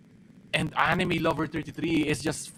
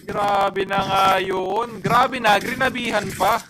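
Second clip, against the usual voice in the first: awed hype; 2 semitones higher, 3 dB louder than usual. Real, not acted. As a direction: draw it out in awe. Co-caster awed by the play.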